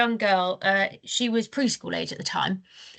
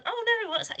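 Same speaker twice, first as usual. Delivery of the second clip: pitched way up, a hammed-up confused grown-up; high, bewildered oh no; mock baffled; 14 semitones higher, 5 dB quieter, faster than usual. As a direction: play the helpless adult who can't work the iPad. Adult baffled by iPad.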